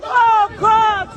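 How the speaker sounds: loud, distressed cry out; shocked cry. Real, not acted. Shocked after violence.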